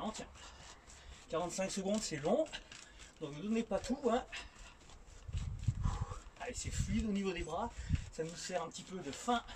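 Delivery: talking while jogging in place; while running. Real, not acted. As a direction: coach jogging and boxing as she talks. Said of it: "on va attaquer par de la boxe en courant".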